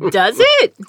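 high, loud sneering imitation of online critics; lightly mock a smug internet critic. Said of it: "and, like".

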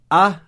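drawn-out hesitant "a"; a stumble. Shown as a demonstration. Teacher showing the stumble on "a". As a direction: stretch "a" as if stumbling before a vowel. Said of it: "fica a, a, a".

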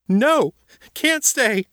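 high, loud frightened cry; shouted. A narrator's reading. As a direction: scream it in panic. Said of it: "the girl shouted".

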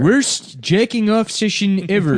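high, slow, sneering nerd verdict; comic book guy. Acted. Mocking people who rate porn, slow comic book guy voice. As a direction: pronounce each word as a haughty fanboy critic. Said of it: "comic book guys".

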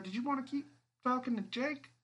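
high and loud, sarcastic through a speaker; mocking voice on the speakerphone. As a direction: needle him over the loudspeaker. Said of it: "on the speakerphone".

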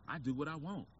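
high-pitched defiant mock teen; high, brash mimicry of defiant kids; unruly talk-show kid. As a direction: mouth off like a bratty guest. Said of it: "That's always the first thing they say".

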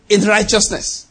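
"righteousness" said with firm emphasis; stress on righteousness. Shown as a demonstration. Preacher telling them how to defend a decision, emphatic on "righteousness". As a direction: lean on the word "righteousness". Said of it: "I emphasize that word".

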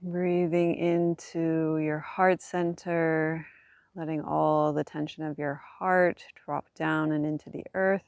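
calm voice easing tension away; soft spa whisper. Acted. Guides body relaxation on back.

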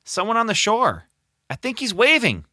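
high call from the boat; shout. Acted. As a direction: call it out across the water. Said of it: "James shouted".

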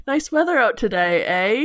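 mock-Canadian with a tagged-on eh; Canadian accent. Shown as a demonstration. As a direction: put on a cheery stereotype Canadian accent. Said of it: "It's kind of a Canadian".

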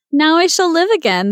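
bright high joyful cry; rejoicing. Acted. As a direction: sound overjoyed. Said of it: "the fir tree rejoiced".

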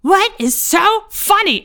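high, slow, loud confused voice; hammed-up bewildered drunk; mock baffled question. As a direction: ask it way up high, puzzled. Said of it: "he is like".

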